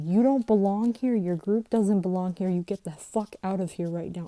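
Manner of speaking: mock yell, strongest at the start; retold yell. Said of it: "yell at this kid".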